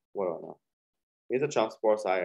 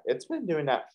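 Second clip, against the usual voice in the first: voice cracking; 6 semitones higher than usual. Real, not acted. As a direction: voice cracks mid-phrase. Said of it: "voice crack".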